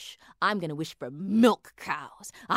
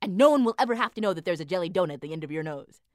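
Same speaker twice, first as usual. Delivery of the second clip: coaxing; 3 dB louder, slower than usual. Acted. Husband coaxes wife slowly.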